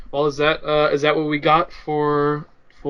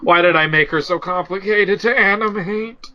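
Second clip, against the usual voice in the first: mock regret. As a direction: play an animator lamenting their own mistake. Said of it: "You're just like".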